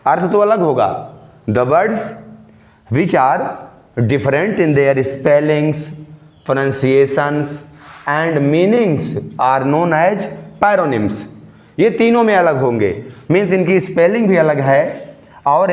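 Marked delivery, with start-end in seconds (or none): 1.5-11.2 very slow, word by word, like dictating notes; slow dictation. Shown as a demonstration. Teacher dictating the paronym definition, very slowly. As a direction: drag each word out for note-taking.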